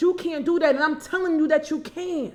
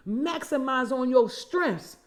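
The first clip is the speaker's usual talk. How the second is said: slow emphasis; slower than usual. Shown as a demonstration. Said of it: "I'm gonna say it again".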